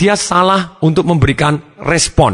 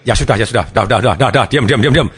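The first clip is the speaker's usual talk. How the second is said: giving-in father; 4 semitones lower than usual. Acted. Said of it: "dia kasihan".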